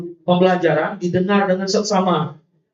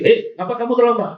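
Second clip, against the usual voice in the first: scolding senior. Retold or imitated. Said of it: "Kakak-kakak kelasnya mungkin agak sih".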